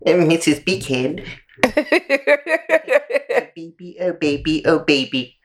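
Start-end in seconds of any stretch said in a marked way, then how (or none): 1.6-5.4 seductive voice. Pretend. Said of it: "voices that could not make me any softer".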